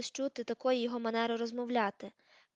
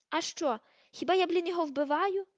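loud, higher indignant yell; bawling; 7 semitones higher, 4 dB louder than usual. A narrator's reading. Crabbe yelling at Malfoy, a loud indignant bawl. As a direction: bawl it back defiantly. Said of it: "зарепетував Креб".

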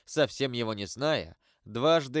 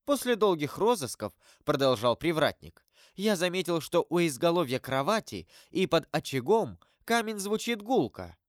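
gatekeeper storyteller; 5 semitones higher than usual. Acted. Gatekeeper continues his tale.

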